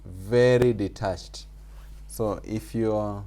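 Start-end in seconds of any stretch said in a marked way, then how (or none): 0.0-1.5 very detached, said slowly and louder; stressed demo. Shown as a demonstration. Music teacher illustrating the term, slow and stressed. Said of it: "the note should be".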